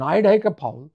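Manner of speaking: আইডাইকা ফাউল with American "ai" vowels; American accent. Shown as a demonstration. Lecturer repeating the Americanised name for the audience, American accent. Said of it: "আরেকবার শুনুন".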